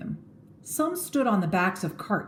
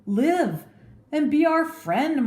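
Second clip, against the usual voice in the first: pleading; 9 semitones higher, 3 dB louder, slower than usual. A narrator's reading. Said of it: "Brutus pleaded".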